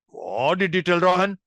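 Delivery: suspicious questioning. Shown as a demonstration. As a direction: ask as if you suspect something.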